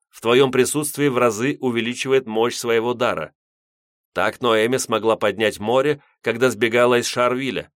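lightly voiced stern old priest; a hint of a grave elder explaining. Old priest speaking in dream.

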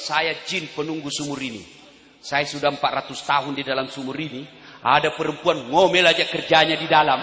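low-pitched well genie; jin penunggu sumur. Acted. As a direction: speak low and weary as the genie. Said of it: "bilang ini yang keluar". (suara jin yang rendah)

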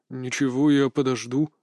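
flat, even and a little low; monotone answer. Acted. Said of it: "монотонно ответил".

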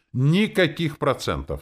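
high, slow, delighted cry; joyful exclaim. A narrator's reading. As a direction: announce it gleefully, drawn out. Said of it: "радостно воскликнул Ури".

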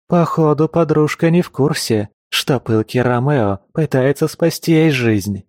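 taunting growl at the would-be Romeo; mocking growl. A narrator's reading. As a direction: snarl it out with scorn. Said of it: "прорычала Белка".

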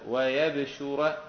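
ويبشر as slow wa-yab-shu-ra; light-sheen reading. Shown as a demonstration. Teacher demonstrating the rule, ويبشر as wa-yab-shu-ra. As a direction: recite ويبشر with still b, single sh. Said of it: "وضم الشين مع التخفيف".

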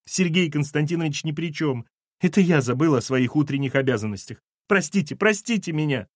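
apologetic, plaintive wail rising in pitch; lamenting. Acted. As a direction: beg forgiveness tearfully. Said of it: "запричитала Валентина".

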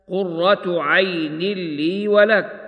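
slow, measured tartil chant; slow Quranic recitation. Acted. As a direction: recite it slowly with tajweed. Recites verse in tajweed style.

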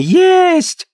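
high shrieking squeal. Acted. Old mother to the family, squealing with hunger.

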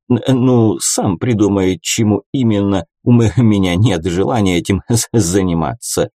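halting stammer on "ну", "меня", "заниматься". A narrator's reading. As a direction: stutter on "Н-", "м-" and "з-". Brother Yur stammers on.

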